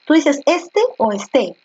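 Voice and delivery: "este" said once with the stress on "es", once on "te"; contrasting stress. Shown as a demonstration. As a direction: compare the two stresses of "este". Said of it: "porque este".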